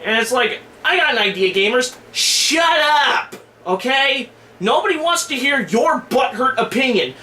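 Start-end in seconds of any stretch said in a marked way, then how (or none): 2.1-7.1 fed up. Real, not acted. Scolding gamers directly.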